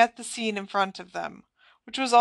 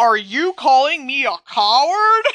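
very loud, high, full-throated bellowing roar; 5 semitones higher, 8 dB louder than usual. A man confronts another as someone tries to get between them; roared. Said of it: "Roared Sirius".

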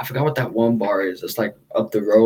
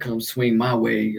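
imitated old man voice; 3 dB quieter than usual. Mimicking an old guy hitting on a lesbian bartender: imitating an old head. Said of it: "someone old head would say".

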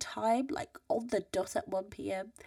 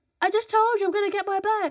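shrill, very high, loud shouting; 12 semitones higher, 7 dB louder than usual. Retelling answering someone at the other end of a corridor: retelling own shouting. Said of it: "Why are you shouting?".

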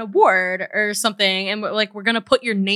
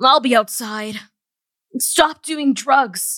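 English-dubbed anime character voice style; 3 semitones higher than usual. Voicing a dog in a retold story, in a dubbed anime character voice. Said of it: "the dog sounds like a dubbed anime character".

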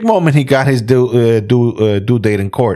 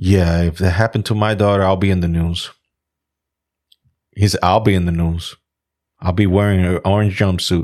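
acted, mock dead-serious delivery; 4 semitones lower than usual. Retelling a man's reply when asked what was wrong, dead serious. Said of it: "He said it dead serious".

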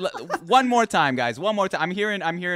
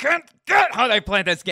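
loud, rushed, raging, furious outburst; 6 semitones higher, 5 dB louder than usual. Retelling a player who kept getting killed in Valorant, acting out his rage. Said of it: "You could hear the rage in his voice".

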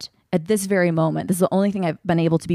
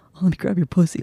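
imitated sexy, seductive tone. Retelling a line from an earlier show, imitating a sexy voice. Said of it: "in a sexy way".

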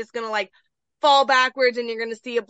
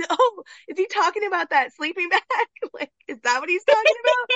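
put-on, high-pitched, spoken through helpless laughter; 8 semitones higher than usual. Recalling watching a movie scene, the speaker acts out their past self: retelling own laughing. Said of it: "I'm laughing, going".

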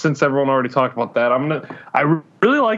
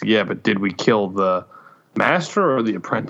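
put-on ominous movie voice; 5 semitones lower than usual. Retelling a favourite Star Wars scene, quoting Mace Windu, mock-ominous. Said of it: "ominously asks".

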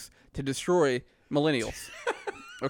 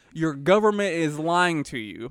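normal talking voice

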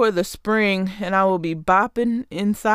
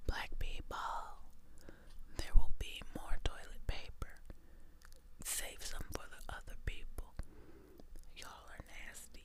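breathy, soft, very hushed ASMR whisper. Addressing black people directly, a speaker switches to an asmr whisper. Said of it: "this is my ASMR voice".

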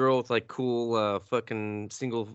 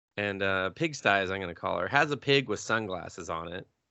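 ordinary delivery

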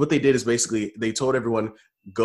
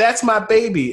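acted-out, very high, loud whooping and hooting holler; 11 semitones higher, 6 dB louder than usual. Recalling walking past their parents at graduation, retelling parents hooting and hollering. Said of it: "they hooted and hollered".

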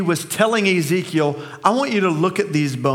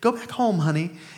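put-on sweet, nice little voice; 4 dB quieter than usual. Retelling an elderly woman talking to the dog following her, in a nice little voice. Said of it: "tell the dog in a nice little voice".

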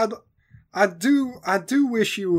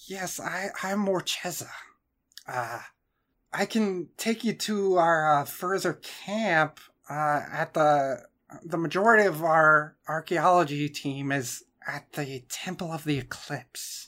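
character voice of a snake person; 2 semitones lower, 7 dB quieter than usual. Voicing the snake person introducing themselves to the group: voicing the snake person Morcheza. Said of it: "the snake person introduces themselves as Morcheza".

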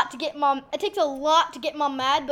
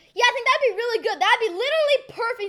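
loud, high-pitched, talking-on-the-phone voice; 8 semitones higher than usual. Acting out the listener's phone call with a writer friend, use a loud phone-talk voice. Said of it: "what's my loud phone talk voice?".

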